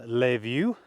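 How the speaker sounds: playful French accent on Le View. Real, not acted. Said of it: "I don't know why I say it with a French accent".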